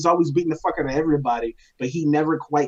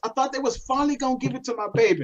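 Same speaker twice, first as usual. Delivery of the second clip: high-pitched, aggrieved fan rant; raging out; 7 semitones higher than usual. Real, not acted. Fan venting that the favorite lost, high aggrieved rant. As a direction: complain in a high voice, wronged and incredulous. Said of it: "take this time to just rage out".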